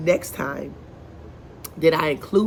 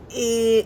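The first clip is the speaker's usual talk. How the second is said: mock whine; 6 semitones higher than usual. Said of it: "he whines".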